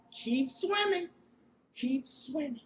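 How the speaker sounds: lightly voiced cheerful cartoon fish, sing-song; a hint of Dory chirping her motto. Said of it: "Dory in the movie Finding Nemo would say".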